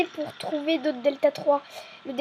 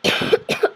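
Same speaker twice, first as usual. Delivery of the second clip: acted cough. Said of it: "J'ai pris un peu froid".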